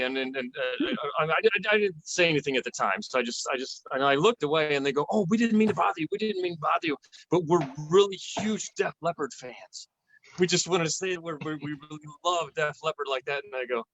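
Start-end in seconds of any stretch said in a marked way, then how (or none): 5.1-13.4 gushing fans. Retold or imitated. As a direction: play the giddy couple gushing over a rock star. Fans approaching the table gushing.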